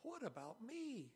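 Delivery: a son's raw, slow cry for his father's blessing; bitter pleading cry. A narrator's reading. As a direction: draw out the plea like a cheated son begging. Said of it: "he let out a loud and bitter cry".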